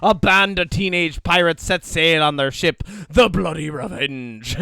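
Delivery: loud, hammed-up pirate storyteller. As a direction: spin the yarn like a pirate captain. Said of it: "say it in a pirate voice".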